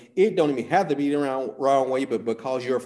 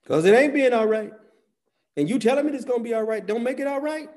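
furious yell, much higher and louder; angry shout; 13 semitones higher, 8 dB louder than usual. Retold or imitated. Preacher yelling at friends who say it's all right. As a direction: shout back at the comforters in a high raging voice. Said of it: "And you know what I said?".

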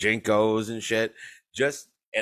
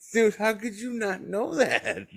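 exasperated disbelief. Retold or imitated. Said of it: "I'm like".

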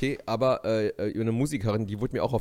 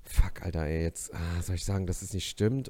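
tag; 7 semitones lower, 6 dB quieter than usual. Retold or imitated. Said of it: "und dachte sich so".

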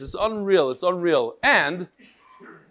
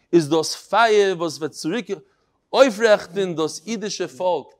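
Litvish Yiddish; 3 dB louder than usual. Retold or imitated. Rabbi reads a martyr's last words to his class, Litvish Yiddish. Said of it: "in the Litvish Yiddish".

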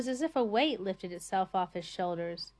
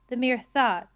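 growled; 3 semitones higher, 8 dB louder than usual. Acted. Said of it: "growled Mister Prosser".

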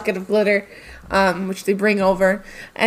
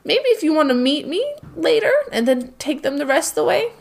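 higher, quicker Spider; cheerful Spider, higher and quick; higher, hurried, ending in a whisper; 6 semitones higher than usual. Acted. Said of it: "He goes".

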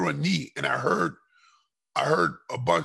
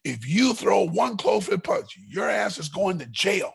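slow, higher imitated stern threat; a hint of a furious cop, slowed and raised; mock angry warning; 5 semitones higher, slower than usual. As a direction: lay down the law like a mad police captain. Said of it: "He was mad at me".

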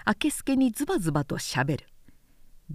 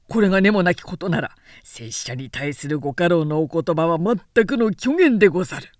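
louder, fast sneering rebuke; cold angry counter; 3 semitones lower, 4 dB louder than usual. Acted. Harada throwing the charges back at Namie, loud and biting. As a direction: cut him down with sarcasm.

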